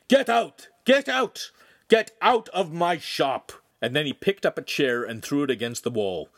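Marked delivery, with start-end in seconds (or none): 0.1-3.5 high, loud repeated order; angry shout. A narrator's reading. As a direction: shout them out of the room in fury. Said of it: "the master shouted".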